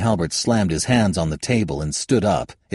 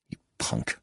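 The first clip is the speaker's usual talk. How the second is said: strained hiss; 10 dB quieter than usual. Acted. Face held in a claw.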